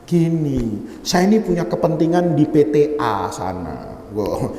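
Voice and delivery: low, hesitant favour-seeker; shy. Retold or imitated. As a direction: imitate a shy man easing into a request. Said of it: "tapi malu". (menirukan orang yang malu-malu)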